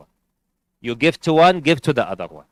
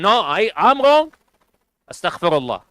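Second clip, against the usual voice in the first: admitting fault; 5 semitones higher, 3 dB louder than usual. Retold or imitated. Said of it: "don't be stubborn".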